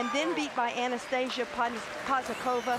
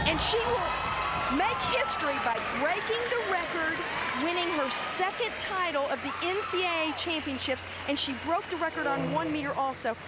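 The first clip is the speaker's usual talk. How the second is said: excited; 4 semitones higher than usual. Real, not acted. Commentator reacting to record-breaking dive.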